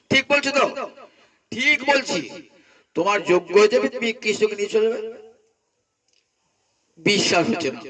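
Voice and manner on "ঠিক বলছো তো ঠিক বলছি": high, playful checking question, then a light laugh; teasing doubt. Acted. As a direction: tease her and laugh it off.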